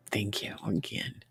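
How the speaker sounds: soft whispered thank you. Real, not acted. Quiet thanks to chat.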